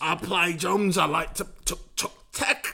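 put-on impression of a band's drummer. Pretending to be the band's drummer, mock band-member voice. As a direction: play a mock band member, fumbling along. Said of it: "Give your best band-member voice"

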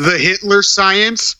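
full voice, high and slow; slow, high question at normal volume. Real, not acted. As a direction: say it up high and stretch it out. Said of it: "Why are you so quiet?".

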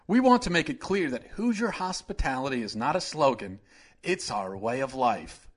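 a hint of a smug governor; Mike Pence impression. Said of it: "this is my Mike Pence impression".

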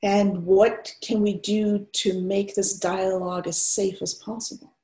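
undefended, open invitation to talk; relaxed, open. Acted. White therapist asking a client of color, relaxed and open. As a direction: ask openly, with room for pauses. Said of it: "there's a sort of quality of undefendedness".

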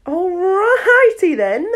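slow silly drawl. Acted. Reader's own ad lib.

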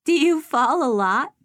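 put-on high, loud curious child; a small girl asking innocently; little girl voice. A narrator's reading. Child asks.

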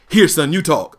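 a touch of panic, pushing the phone away; mock panic, shove it off on him; panicked handoff. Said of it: "this is exactly what I said".

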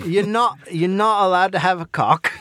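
put-on Australian host, half-laughing; attempted Australian accent. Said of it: "try and do an Australian accent".

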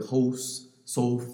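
put-on "hos" for house and "sof" for south, Old Town Virginia vowels; Old Town Virginia accent. Shown as a demonstration. Explaining how older Richmond folks talk, Old Town Virginia accent. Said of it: "they say words like".

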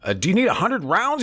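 high, hammed-up yelled question; imitating Biden shouting at the worker; mock shout. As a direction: belt it like an angry old man. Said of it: "he shouted again".

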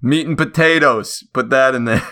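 put-on comic British accent; mock British. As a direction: play a blunt Brit with a put-on accent. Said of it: "the British come in, they're like".

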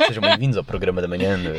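posed morning-show host welcome; radio presenter voice. Shown as a demonstration. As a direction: do a composed radio host voice, half-laughing. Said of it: "Voz colocada é aquela voz de rádio".

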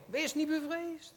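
comforting angel. Retold or imitated. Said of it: "zei de engel". (hoger en langzaam, nadruk op niet, als een troostende engel)

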